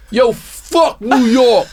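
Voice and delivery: slow, high mock crowd yell with a laugh; crowd shouting. The whole room turning on the New York comic, mock crowd shout. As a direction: bellow it slowly like a hostile room. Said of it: "And the room literally says".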